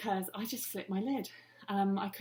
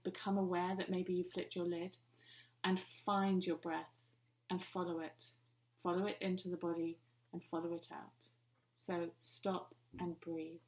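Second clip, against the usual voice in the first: softer, paced with pauses; calming breath guidance; 4 dB quieter than usual. Shown as a demonstration. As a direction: gently guide them into the breath. Guides listeners to breathe.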